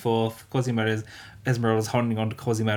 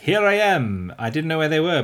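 mock villain gloat; 6 semitones higher, 5 dB louder than usual. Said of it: "And he's like".

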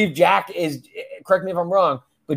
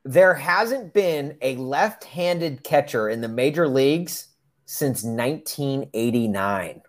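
slow, measured trivia read-out; deliberate fact reveal; 4 dB quieter, slower than usual. Real, not acted. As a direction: draw the fact out slowly for effect. Reading out the day's trivia fact.

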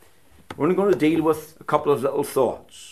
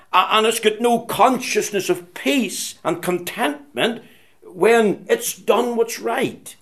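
emphatic preaching; 5 semitones higher, 3 dB louder than usual. Acted.

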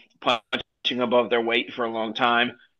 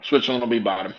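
chewing while talking; faster than usual. Real, not acted. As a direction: mouth full of dinner. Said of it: "I'm trying to eat my dinner".

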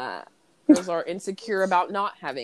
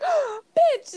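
high outraged yelp, far higher; mock outraged cry. Cindy turning on the reporter after the insult, high mock outrage. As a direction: spit it out in shock.

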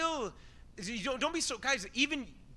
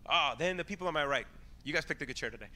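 ordinary talk, nothing marked

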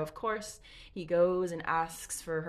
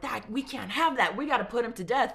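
stern boss; 6 semitones higher, 7 dB louder than usual. Retold or imitated. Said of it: "his boss, is like".

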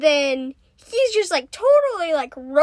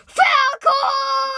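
high, drawn-out celebratory shout; hammed-up cheer; 10 semitones higher, 5 dB louder than usual. Podcasters hailing Falcor after a countdown, high gleeful shout. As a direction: cry it out like a hero has arrived.

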